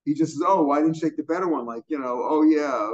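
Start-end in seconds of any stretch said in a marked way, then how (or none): 0.5-1.7 mildly sarcastic, leaning on the opening "Oh". Retold or imitated. Owner who didn't really mean it, sarcastic. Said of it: "he was really being sarcastic". 2.2-2.8 louder, sarcastic mock agreement. Owner who doesn't really mean it, sarcastic. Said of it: "he didn't really mean it".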